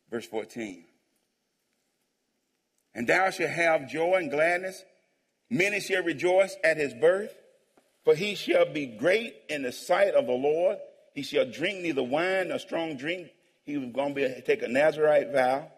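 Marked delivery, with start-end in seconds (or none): 2.9-13.3 slow, measured proclamation; scripture reading. Real, not acted. Pastor reading the angel's promise to congregation, slow proclamation. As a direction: read the verse out slowly to the church.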